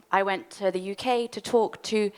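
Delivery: breathless from rushing; out of breath. Real, not acted. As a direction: talk while short of breath. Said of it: "I'm very out of breath".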